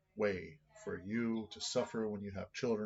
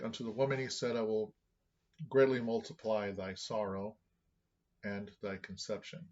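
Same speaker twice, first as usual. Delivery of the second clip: louder Bible reading, easing off at the end; scripture reading; 5 dB louder than usual. Acted. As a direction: read out the verse, then let it settle. Reads scripture aloud.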